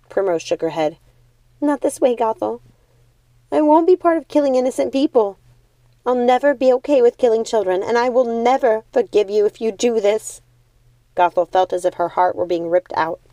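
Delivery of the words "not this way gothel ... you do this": angry refusal. Acted. Primrose refuses angrily.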